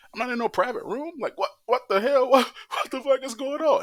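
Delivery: high, loud, outraged retort; pissed off. Retold or imitated. To the nurses about no private room, outraged high yell. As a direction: blow up at being stuck on a gurney. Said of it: "I was pissed".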